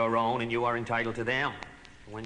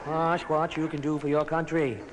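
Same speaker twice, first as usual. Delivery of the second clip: Teddy's version; 5 semitones higher than usual. Shown as a demonstration. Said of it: "Teddy, you try it".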